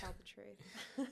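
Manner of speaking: slow, wry laugh through the words; dry amused drawl. Real, not acted. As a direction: say it with an ironic chuckle. Wry remark about politicians.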